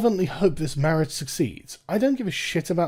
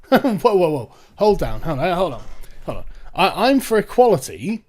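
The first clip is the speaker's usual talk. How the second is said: mock protest; 5 semitones higher, 5 dB louder than usual. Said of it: "You would think a feminist would say".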